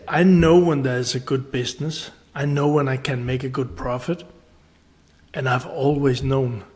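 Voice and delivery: lightly imitated conviction; retold certainty. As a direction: quote him as having no doubt. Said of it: "with so much certainty".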